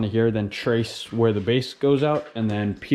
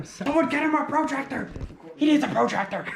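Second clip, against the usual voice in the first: mock call out; 13 semitones higher, 3 dB quieter than usual. Real, not acted. Teasing the cousin about tracing.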